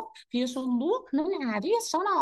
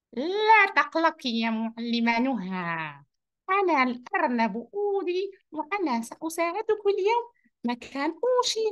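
lightly voiced cheerful rabbit Oudi; a friendly puppet rabbit greeting the teacher, lightly voiced; 2 semitones higher than usual. Oudi the rabbit reassures teacher Noha, lightly voiced and cheerful.

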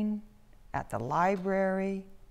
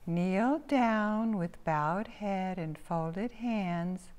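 slow recital from a book, higher pitched; reading aloud; 4 semitones higher, much slower than usual. A narrator's reading. Girl reads prayer rules to the group, slow recital. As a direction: read it out slowly and formally. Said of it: "and read aloud".

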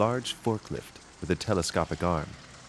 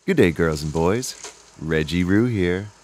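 louder, upbeat Aussie host greeting; cheery kids' host; 5 dB louder than usual. Acted. Kangaroo host greeting girls and boys, cheery and loud. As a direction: greet the kids like a bouncy TV host.

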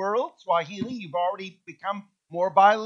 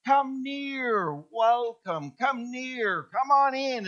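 welcoming call; 6 semitones higher, much slower than usual. Retold or imitated. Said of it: "Karibu says".

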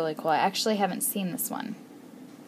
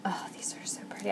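whispered, much softer; awed whisper; 10 dB quieter, much faster than usual. Real, not acted. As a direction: breathe it in wonder. Awe at buttons.

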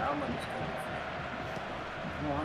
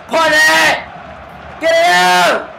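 raging gamer; 5 semitones higher, much slower than usual. Real, not acted. Late chance, shouting.

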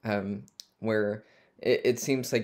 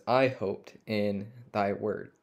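slow emphasis; slower than usual. Shown as a demonstration. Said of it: "I wanna, uh, point out".

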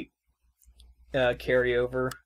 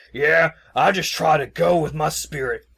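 a higher, louder, easygoing guy voice; laid-back Sahad voice; 5 semitones higher, 8 dB louder than usual. Retold or imitated. Host quoting Sahad at camp, breezy and loud. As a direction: play it breezy and carefree. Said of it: "he's all like".

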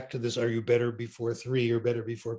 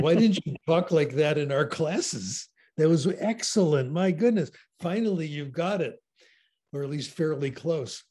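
higher-pitched, lightly acted approval; mock delighted praise; 4 semitones higher than usual. Examiner praising a student's French, mildly delighted imitation. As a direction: imitate an impressed teacher.

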